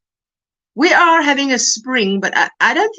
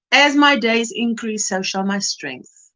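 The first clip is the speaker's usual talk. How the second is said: quoting scripture. Acted. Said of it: "That verse".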